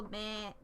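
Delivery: imitated bleat dropped mid-sentence; a short mock "meh" like a goat. Streamer joking about a goat character, imitated goat bleat. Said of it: "I love the noise that goats make".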